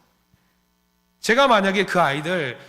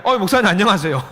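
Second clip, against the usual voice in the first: put-on sheepish teen greeting; 4 semitones higher, 6 dB louder than usual. Teen greets while smoking.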